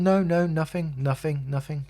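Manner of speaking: high-pitched imitation of mum denying it; mum's denial. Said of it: "like that".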